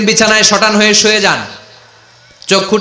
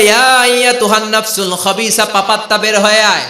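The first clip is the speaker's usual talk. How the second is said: high, sustained chanted command; retold angry rebuke; 5 semitones higher than usual. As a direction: imitate the angel of death ordering a soul out. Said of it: "মালাকুল মাউত আবার ধমক দিয়ে বলে".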